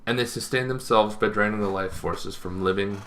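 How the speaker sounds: even narration with long pauses; formal lore reading. Acted. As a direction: read it like a solemn monster-manual entry. Reads out vampire lore, formal.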